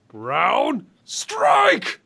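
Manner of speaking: high yelled move name echoing; screaming. Pretend. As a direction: scream it through the chambers. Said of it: "scream that at the top of my voice".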